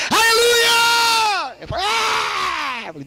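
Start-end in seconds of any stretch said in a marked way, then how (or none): 0.1-1.6 long high shouted aleluia; stretched shout. Acted. Pregador diante da multidão, grito longo de aleluia. 1.8-2.8 high excited cry; high shout. Acted. Pregador animado com a multidão, grito alto. Preacher's exclamation to crowd.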